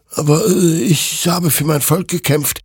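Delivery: high-pitched hesitant defence; self-justifying. A narrator's reading. Hektor justifies his killing to the creature, defensive. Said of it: "rechtfertigte sich Hektor".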